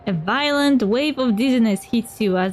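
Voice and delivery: measured scene-setting narration; storyteller setting the scene; game master narration. Acted. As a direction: narrate an ominous scene to players.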